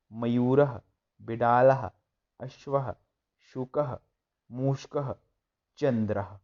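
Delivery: loud recitation drill. Shown as a demonstration. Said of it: "जोर जोर से बोलना है".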